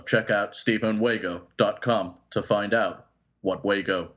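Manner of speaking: flat, slow robot monotone; robotic voice. Pretend. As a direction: read the plugs like a machine. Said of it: "in a robotic voice".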